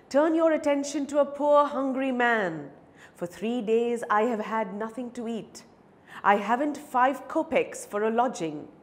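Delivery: mildly plaintive appeal, lightly acted; a hint of a begging man pleading; lightly voiced pleading beggar. Beggar appeals to the advocate for pity, lightly pleading.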